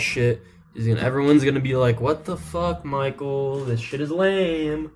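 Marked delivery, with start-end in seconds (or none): 2.0-4.9 imitating annoyed party guests, drawing out the last words; mock complaint. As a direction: whine it like a let-down crowd. Annoyed guests complaining about music.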